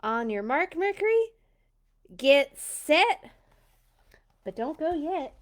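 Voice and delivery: calling out the start, rising; excited race starter. Acted. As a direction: hype up the countdown.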